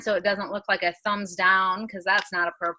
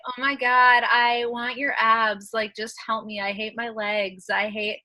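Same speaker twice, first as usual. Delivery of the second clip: mock insecure whining, lightly voiced; a touch of insecure begging; impression of Bae. Friend imitating Bae's old insecure self, lightly whiny. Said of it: "this is my impression of Bae when she started".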